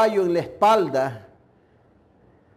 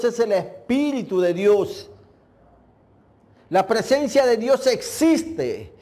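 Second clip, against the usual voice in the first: fervent preaching. Acted. Preaching about the Holy Spirit.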